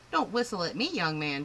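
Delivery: a lightly voiced old lady telling off; scolding. Old lady scolding a young man, mild loud scold.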